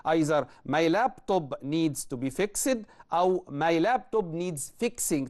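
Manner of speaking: slow, careful reading of the options; slow dictation. Shown as a demonstration. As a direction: read each choice slowly. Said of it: "either ... or".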